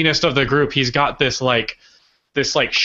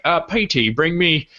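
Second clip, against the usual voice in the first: lightly put-on British accent; casual, in-command Brit, badly faked; crappy British accent; 2 semitones higher than usual. Mister Bean ordering Petey around, in a crappy British accent. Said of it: "here comes my crappy British accent".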